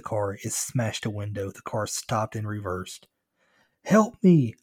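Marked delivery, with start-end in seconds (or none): 3.8-4.5 high, loud cry for help; screamed plea. A narrator's reading. Runaway kid flags down a passing car, screaming. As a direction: scream out for rescue. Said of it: "I screamed".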